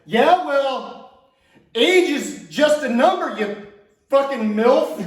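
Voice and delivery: hammed-up insult fired at the mother; cocky comeback. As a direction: land the punchline with swagger. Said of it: "and I go".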